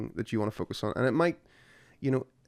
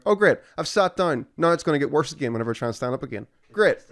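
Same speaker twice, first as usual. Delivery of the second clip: sarcastic; 3 semitones higher, faster than usual. Retold or imitated. Sarcastic sitting down.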